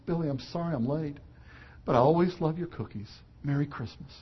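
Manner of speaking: soft, hushed Santa comforting; understated tender Santa; gentle Santa. Retold or imitated. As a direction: whisper kindly to a sad child.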